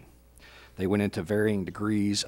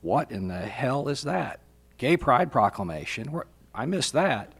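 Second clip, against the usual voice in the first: retold surprise; 3 semitones higher than usual. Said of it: "my honest first reaction to that is".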